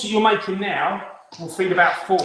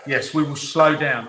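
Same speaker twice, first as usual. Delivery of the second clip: slowed down; 3 semitones lower, 4 dB louder than usual. Real, not acted. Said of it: "if you could slow down".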